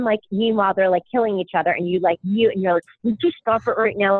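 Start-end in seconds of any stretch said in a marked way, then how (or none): 3.0-4.2 muttered through clenched teeth; through gritted teeth. Retold or imitated. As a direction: hiss it through your teeth. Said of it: "talking through your teeth".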